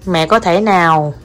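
very slow, each word laid out; feed the phrase word by word for a child to copy; slow dictation. Shown as a demonstration. Mother dictates a polite request, very slowly. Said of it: "dictates Vietnamese phrase to child".

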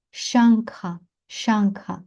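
Шангха with the first А stressed and long; teacher's careful Шангха, first syllable held. Shown as a demonstration. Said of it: "Наголос на".

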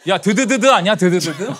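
ordinary talk, nothing marked

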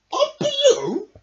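high, loud astonished gasp; gasping surprise. Acted. Badger learns the things came from a balloon, gasping. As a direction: gasp at the discovery. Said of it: "gasped Badger".

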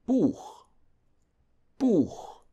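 high-pitched Buch ending on back ch. Shown as a demonstration. German teacher showing ch after U, back ch in Buch. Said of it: "This is pronounced".

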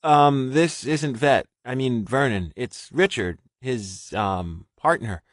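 rushed and frantic. A narrator's reading. Frightened Richard blurting his story to a stranger, frantic. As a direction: pour it out in a panic. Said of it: "Richard's words were rushed and frantic".

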